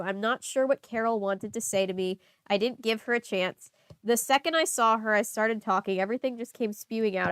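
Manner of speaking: steady reading-aloud voice; story narration. Acted. Reader narrating the diary, steady read-aloud voice. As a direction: read the diary entry evenly.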